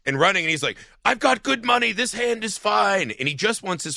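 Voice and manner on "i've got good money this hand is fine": mock pleading Vickus. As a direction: insist in a high voice that you're fine.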